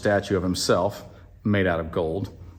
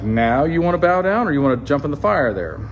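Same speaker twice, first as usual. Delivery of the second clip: raised-pitch pretend threat; mock anger; 4 semitones higher, 4 dB louder than usual. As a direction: taunt them as a mock-angry king. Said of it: "he gets really mad".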